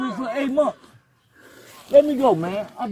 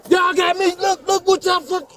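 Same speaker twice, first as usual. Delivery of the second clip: shouting in pain; 6 semitones higher, slower than usual. Real, not acted. Arrestee yelling in pain.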